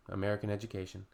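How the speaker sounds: dropped, resigned repeat; flat, weary punchline; deadpan repeat. Real, not acted. Repeating to viewers, resigned deadpan. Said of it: "ladies and gentlemen".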